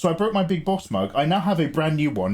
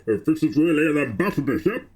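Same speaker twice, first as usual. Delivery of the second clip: James Earl Jones impression; faster than usual. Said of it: "No, I haven't got it".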